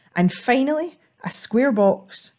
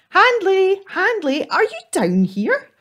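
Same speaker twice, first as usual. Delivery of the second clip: louder, higher call down the bank; 12 semitones higher, 4 dB louder than usual. Acted. Ethel calling for the troll under the bridge, loud higher call. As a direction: call his name from above.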